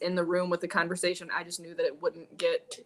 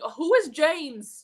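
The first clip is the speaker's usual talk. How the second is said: confused question; 8 semitones higher, 6 dB louder, much slower than usual. Retold or imitated. Confused while watching.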